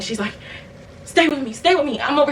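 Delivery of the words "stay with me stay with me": high, panicked mock plea; hyperventilating grandmother. Grandmother over her sick grandchild, imitated hyperventilating panic. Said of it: "So she's hyperventilating".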